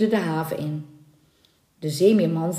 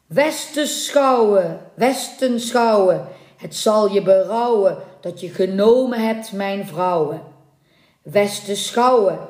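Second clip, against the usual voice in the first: chanted rhyme of doom; incantatory curse. Acted. Merman chants his curse.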